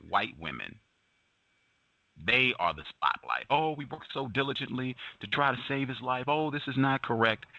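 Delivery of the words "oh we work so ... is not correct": high, sarcastic fake concern; mock sincerity. Mocking the women's claimed effort, high and sarcastic. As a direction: ham up their pious protest.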